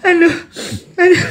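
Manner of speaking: aduh tinggi dan keras sambil ngakak; mengaduh sambil tertawa. Real, not acted. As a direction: tak tahan tertawa. Tertawa terbahak. (ngakak mengaduh)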